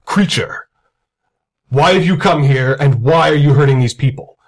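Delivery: angry grandfatherly wizard, lightly voiced; a measured command with force and authority, rising on key orders; Christopher Lee mode. Wizard confronts the Dread Knight, lightly voiced angry grandpa with authority. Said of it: "Christopher Lee mode".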